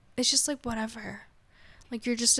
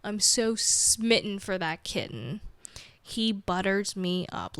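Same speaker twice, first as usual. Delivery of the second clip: slow, doting gush over a kitten; smitten gushing; slower than usual. Retold or imitated. Owner gushing over her cat, slow and doting. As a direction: melt over how cute he is, slowly. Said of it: "I'm like".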